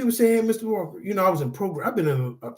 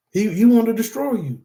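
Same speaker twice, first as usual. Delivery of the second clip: louder and faster, pitch pushed up; heated, rushing the question out; fired-up preacher burst; worked up; 5 semitones higher, 4 dB louder than usual. Real, not acted. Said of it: "I don't know why I'm talking like this".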